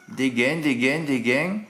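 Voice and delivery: GAINS drawn out with a southern "-èn" ending; drawn-out pronunciation. Shown as a demonstration. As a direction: say "gains" as "guèn", repeated slowly. Demonstrating how the word is said.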